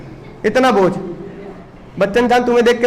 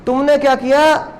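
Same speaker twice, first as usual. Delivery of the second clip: ordinary delivery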